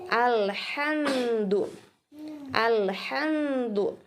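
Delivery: "Alhamdu" slowly, m closed without bounce; careful correct reading. Shown as a demonstration. Teacher models carefully for students, slow correct "Alhamdu". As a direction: draw out "Alhamdu" with small ha, unbounced m. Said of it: "hati-hati".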